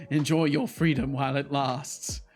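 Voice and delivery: slow, mock robot imitation; imitating the chat robot slowly. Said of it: "says the robot who wants".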